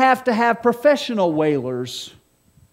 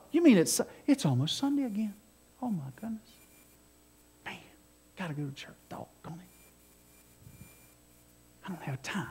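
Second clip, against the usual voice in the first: grumbling mock churchgoer, trailing to a whisper; reluctant churchgoer; 3 semitones lower, 12 dB quieter than usual. Preacher mimics a churchgoer dreading Sunday, grumbling. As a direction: sigh it out like a lazy churchgoer.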